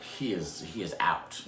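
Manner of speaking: unvoiced hushed whisper; mock whisper. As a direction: breathe it so he won't wake. Whispering while robber nods off.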